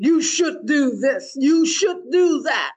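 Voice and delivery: slow, firm nagging parent, lightly voiced; a hint of a scolding parent laying down rules; critical parent voice. Teacher voicing the inner critical parent, mild stern nagging. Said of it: "almost like a critical parent".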